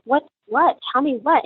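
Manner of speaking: retold startled questions, pitch jumping up; alarmed questioning. Mother questioning the hesitant neighbor, alarmed. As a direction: press urgently for the answer, mildly acted.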